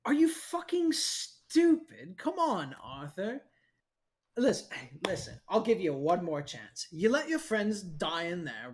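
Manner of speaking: a cocky henchman needling the hero; scornful villain. Acted.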